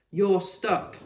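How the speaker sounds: put-on high, loud child's call; called out by Max. A narrator's reading. Max tagging Fred, calling out. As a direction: call it out triumphantly. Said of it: "Max called".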